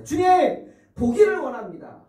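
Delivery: high, loud plea; crying out. Acted. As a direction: call out desperately to be healed. Blind men answering Jesus. (높고 큰 소리로 간절히 외침)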